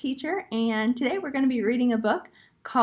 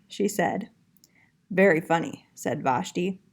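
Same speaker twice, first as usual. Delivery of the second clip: put-on lively storybook reading to young kids; reading to children; 4 dB louder than usual. A narrator's reading. Art teacher reading a picture book to her young class, lively and clear. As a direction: read it out like story time for little ones.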